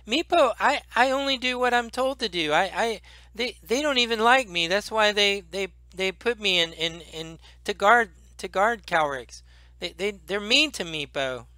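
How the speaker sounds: high whiny stammering kobold; kobold Meepo. Acted. Meepo explaining himself to the party, high and whiny. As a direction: stammer excuses like a bullied kobold.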